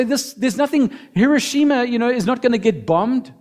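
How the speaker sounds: family reassuring. Retold or imitated. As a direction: brush off her fears lightly. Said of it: "They say".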